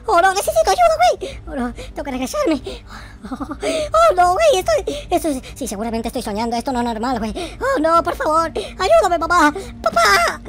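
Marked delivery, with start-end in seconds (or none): 0.1-1.4 high, loud cry for help; loud frantic call for help; panicked plea. Real, not acted. Pleading in panic. 7.6-10.4 higher and louder, papá drawn slow; loud slow wail for dad; panicked begging. Real, not acted.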